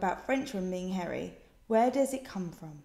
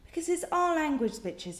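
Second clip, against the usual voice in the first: cheeky sass; 6 semitones higher than usual. Real, not acted. Sassy defence of British spelling.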